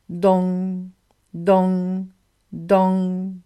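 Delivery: imitated clock stroke, drawn out on the nasal ending; clock chime. A narrator's reading. Narrator imitates the great clock striking, long even chime. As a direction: sound out each stroke like a big clock. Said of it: "sonna la grande horloge".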